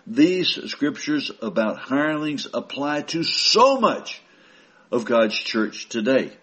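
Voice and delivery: normal talking voice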